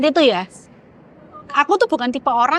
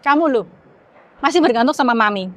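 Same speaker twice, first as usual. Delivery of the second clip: mildly stern retold telling-off; a touch of exasperated motherly reproach; imitated scolding mother. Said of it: "dengan nada yang lebih keras gitu".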